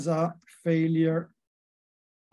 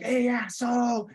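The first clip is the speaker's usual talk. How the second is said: pitched high, a mock yell at the other driver; retold road-rage yell; 7 semitones higher than usual. Driver cut off in traffic, imitating his own shout, mock angry. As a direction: toss it off like an imitated curse. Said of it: "I start screaming at the other person".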